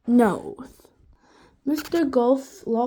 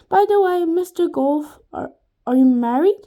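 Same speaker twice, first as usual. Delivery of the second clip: flirty; 5 semitones higher, 8 dB louder than usual. A narrator's reading. Flirting teacher.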